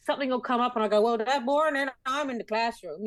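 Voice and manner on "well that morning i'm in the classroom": light Newfoundland lilt, higher, for a line from the show; slipping into the Newfoundland role accent. Retold or imitated. Actor quoting her show line in a light Newfoundland accent. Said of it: "Do you ever slip back into that accent".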